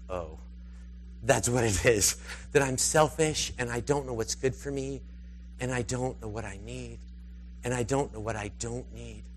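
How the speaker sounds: soft, low dawning admission; hushed, retold self-realization; humbled realization. Retold humbling realization before God.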